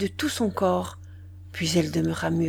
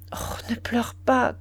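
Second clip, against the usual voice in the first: slow, whispered ne pleure pas; murmured; 4 semitones higher, slower than usual. Acted. Duroy whispers to his crying mistress to stop weeping. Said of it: "Il murmura".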